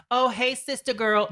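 put-on high, perky sister-girl greeting; hammed-up sassy greeting; mock sassy sister voice. Mocking what critics wanted Wendy Williams to sound like, sassy. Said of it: "she wasn't like".

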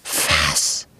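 low, startled wolf gasp; the wolf shocked, low. Acted.

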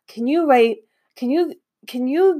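stumbling over words while fighting a laugh; trying to hold a straight face and failing. Real, not acted. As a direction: giggly stammer while asking for the autograph. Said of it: "I can't even talk straight".

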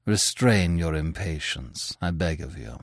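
gentle plea. Acted. Manfred's kind plea.

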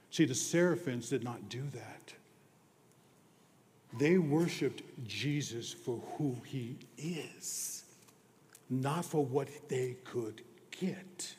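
hushed whisper. Acted. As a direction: draw the congregation close with a whisper. Hushed preaching moment.

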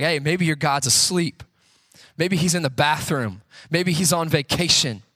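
taunting. Retold or imitated. Elijah taunting the prophets of Baal, mocking. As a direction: needle them with mock suggestions. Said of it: "He starts taunting them".

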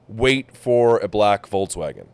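slow, halting broken-English imitation. Driver telling a caller what to wait for, broken English. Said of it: "super broken English".

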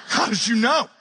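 mock astonishment, lifting at the end; hammed-up disbelief; amazed caller. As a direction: play a gullible psychic's customer. Skit of psychic's amazed caller.

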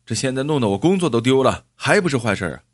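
mildly heated, quick retort; acted burst of temper; flaring up. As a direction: snap back in indignation. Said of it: "张义超火了".

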